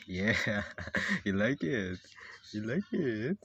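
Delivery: laughing, fairly loud taunt; laughing insistence. Acted. Overruling the reluctant character, laughing insistence.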